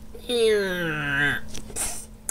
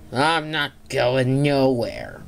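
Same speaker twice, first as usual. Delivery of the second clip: slow villain; 5 semitones lower, slower than usual. Acted. Monster refuses.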